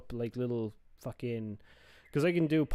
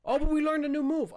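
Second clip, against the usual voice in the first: excited; 4 dB louder than usual. Real, not acted. New move learned in game.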